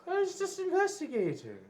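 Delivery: very high, squeaky protest; squeaky indignation. Pretend. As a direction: defend yourself in a voice that shoots way up. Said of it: "He just gets so squeaky when he's mad".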